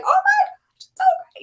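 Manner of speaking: high, gushing fangirl squeal; mock gushing fan. Author mocking how fans gush, high and gushing. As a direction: gush over an author's series. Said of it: "We're like".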